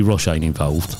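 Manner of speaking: ordinary talk, nothing marked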